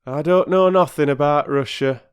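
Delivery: high, loud grumbling porter; a man denying it stubbornly; gruff porter. Acted. Perks to Peter, grumbling.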